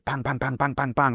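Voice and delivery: six quick shots spat out in a string; imitated gunshots. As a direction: mimic a quick volley of gunfire. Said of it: "six quick shots".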